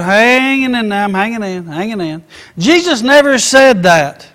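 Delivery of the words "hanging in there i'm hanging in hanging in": mock-defeated, losing steam as it goes; weary mimicry. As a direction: act barely coping, trailing away. Mimicking people barely coping.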